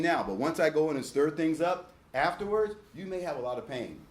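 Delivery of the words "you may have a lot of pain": reassuring. Shown as a demonstration. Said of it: "Watch this".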